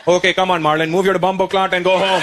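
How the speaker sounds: put-on Indian dad's clumsy Jamaican accent; dad attempting Jamaican. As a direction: imitate a dad faking Jamaican patois. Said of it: "trying to speak like a Jamaican".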